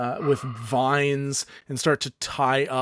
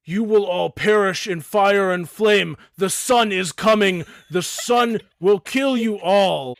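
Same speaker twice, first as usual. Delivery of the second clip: villain ranting; 4 semitones higher, 4 dB louder than usual. Acted. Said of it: "He starts going".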